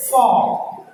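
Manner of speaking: "Fall" with an open "aw" vowel; open-mouthed vowel in "Fall"; wrong vowel. Shown as a demonstration. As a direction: say "Fall" as "faw", as the mistaken sound. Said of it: "that is not that sound".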